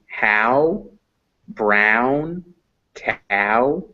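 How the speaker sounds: spaced-out "how, brown, cow", vowels stretched; example words for ow. Shown as a demonstration. Teacher giving examples of ow, slow separated "how, brown, cow". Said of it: "This makes ow".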